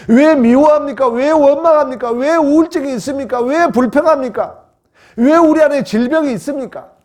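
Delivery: high, loud volley of pulpit questions; full-force preaching. Real, not acted. Preacher demanding why we live in hell, crying out. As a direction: hammer each question at the congregation.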